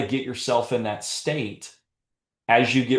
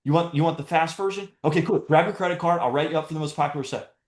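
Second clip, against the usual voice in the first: upbeat and higher, quick salesman's yes; matching her energy; 6 semitones higher, faster than usual. Retold or imitated. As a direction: bounce right back at her energy, eager. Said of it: "did you hear my vo-, my voice inflections".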